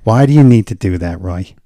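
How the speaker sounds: nasal TV-nanny style mother; nasal mom. Acted. Mom nagging son about jiu-jitsu, nasal. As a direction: nag through the nose. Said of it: "very nasal".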